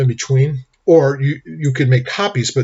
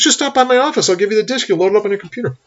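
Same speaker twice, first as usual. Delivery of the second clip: put-on friendly older attorney; 9 semitones higher than usual. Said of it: "friendly older guy".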